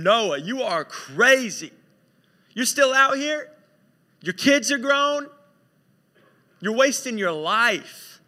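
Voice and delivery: hammed-up incredulous scolding; scornful heckling. Acted passers-by mocking Noah.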